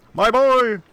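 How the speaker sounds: high, loud anguished call; dramatic cry. Acted. Streamer playing the father crying for his son, loudly. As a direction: cry out like a stricken parent.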